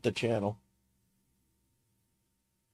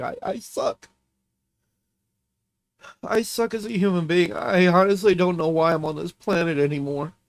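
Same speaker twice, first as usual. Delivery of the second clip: tearful self-loathing; 3 dB louder than usual. Real, not acted. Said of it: "mock me for crying on stream".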